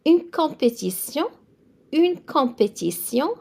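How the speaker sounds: "une compétition" with the French sion ending; teacher modelling "une compétition" for students; French pronunciation. Shown as a demonstration. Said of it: "So T I O N in French, always it's a sion sound".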